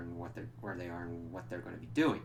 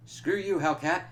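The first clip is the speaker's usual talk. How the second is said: much higher, louder mock villain yell; villain snarl; 8 semitones higher, 7 dB louder than usual. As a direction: spit it out like a cartoon baddie. Korvac attacking Hellcat.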